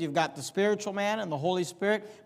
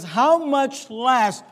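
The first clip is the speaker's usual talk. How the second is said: How much less drawn out, louder, slow; preacher stretching "How much less" for weight; stress on HOW; 4 semitones higher, 5 dB louder, much slower than usual. Shown as a demonstration. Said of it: "notice the emphasis".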